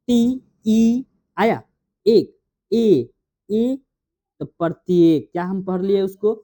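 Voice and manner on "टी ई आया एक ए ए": slow sounding out. Shown as a demonstration. Teacher sounding out letters.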